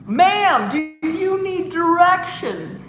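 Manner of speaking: movie character offering help to a lady; mock polite stranger. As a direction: ham up a helpful stranger.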